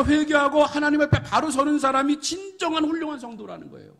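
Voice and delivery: fervent preaching. Acted. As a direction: press the congregation to repent. Preaching to congregation. (열정적인 설교)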